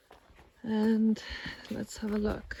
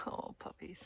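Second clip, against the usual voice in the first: whisper; 11 dB quieter than usual. Real, not acted. Whispering near puppies.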